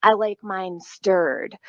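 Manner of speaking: slow, smug mock cop line; imitating the cop. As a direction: savor it slowly like a smug officer. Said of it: "he's like".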